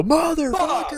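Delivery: building to a high, loud curse; slow, drawn-out yell through laughter; mock pained yell. Acts out stubbing a toe.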